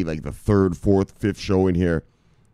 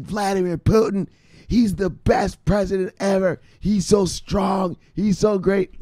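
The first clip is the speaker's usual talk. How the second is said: Russian girl impression; 10 semitones higher than usual. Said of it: "She was like".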